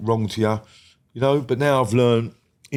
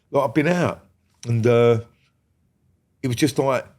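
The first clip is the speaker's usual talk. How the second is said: ordinary delivery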